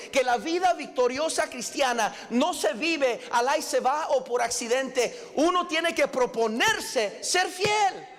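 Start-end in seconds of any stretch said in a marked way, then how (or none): 5.3-8.1 preaching shout. Real, not acted. Preacher drives home his point.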